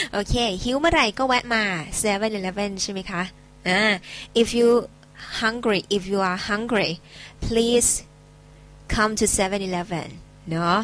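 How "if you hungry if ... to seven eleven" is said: slow teacher model. Shown as a demonstration. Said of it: "models English sentence".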